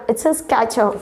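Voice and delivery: Skechers as 'ske-cher', no first r; correct pronunciation. Shown as a demonstration. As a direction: say Skechers for repeating, plain 'sk'. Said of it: "Repeat after me". (Skechersનો સાચો ઉચ્ચાર, 'સ્કેચર')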